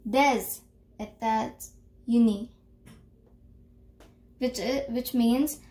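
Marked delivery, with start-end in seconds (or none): 0.1-2.5 "Des États Unis" linked as day-zay-ta-zü-nee; liaison demo. Shown as a demonstration. Teacher models "Des États Unis" liaison for class. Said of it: "what I've written in the pronunciation".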